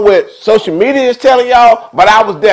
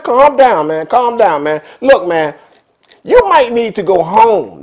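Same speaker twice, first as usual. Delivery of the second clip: soothing; 2 semitones lower, slower than usual. Retold or imitated. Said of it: "tried to persuade him".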